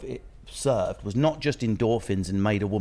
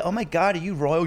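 much higher, gushing excited American; awed American woman; 7 semitones higher, 3 dB louder than usual. Pretend. American woman gushes at the English visitor, much higher. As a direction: gasp like a starstruck fan. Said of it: "we were like".

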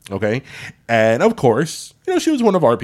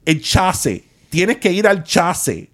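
insistent phone lady; 5 semitones higher, slower than usual. Retold or imitated. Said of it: "she's like".

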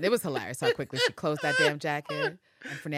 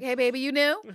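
bubbly saleswoman; 10 semitones higher, 7 dB louder than usual. Retold or imitated. Fernanda greets Pam warmly.

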